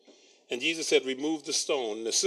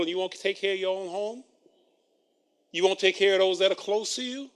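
sarcastic; 2 semitones higher, 4 dB louder than usual. Acted. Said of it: "more sarcasm and criticism".

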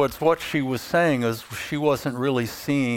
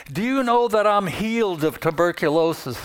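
mild mock yell, higher pitched; retold yell; 5 semitones higher, faster than usual. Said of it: "was yelling at the top of her lungs".

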